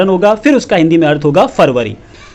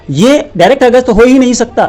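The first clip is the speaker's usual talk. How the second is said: higher exasperated protest; indignant; 5 semitones higher than usual. Real, not acted. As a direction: scoff at the shortcut. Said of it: "indignant correction".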